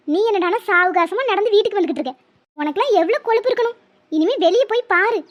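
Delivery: threatening telling-off from a worried mother; mother scolding. Acted. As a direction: scold your daughter for the scare she gave. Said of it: "அம்மாவை எப்படி ஏசுதுன்னு". (மகளைத் திட்டும் அம்மாவின் கண்டிப்பான குரல்)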